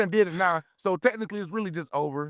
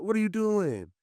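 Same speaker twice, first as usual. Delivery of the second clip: mock coach yell; 6 semitones higher than usual. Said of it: "Josh was like".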